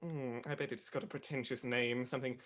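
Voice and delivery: haughty critic drawling "darling"; snooty film critic. Acted. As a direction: play a pompous, snobbish critic. S0 plays a snobbish critic throughout.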